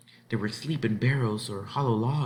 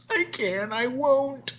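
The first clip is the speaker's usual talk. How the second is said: higher, pleading and scared; frightened girl; slower than usual. Acted. Frightened ten-year-old pleading she can't go on.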